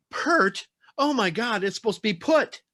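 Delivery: high-pitched mock disbelief; appalled Californian. Californian reader correcting dialect spelling, appalled. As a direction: squeal it like an offended outsider. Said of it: "somebody from, uh, you know, California".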